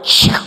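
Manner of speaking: loud voiceless whoosh; rushing ride sound effect; imitated drop whoosh. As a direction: make the sound of a sudden plunge. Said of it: "It went".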